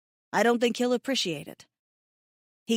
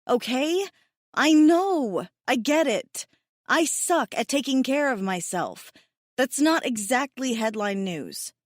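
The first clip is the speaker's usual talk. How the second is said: exasperated; 5 semitones higher, 3 dB louder than usual. Acted. Exasperated outburst at Hassan.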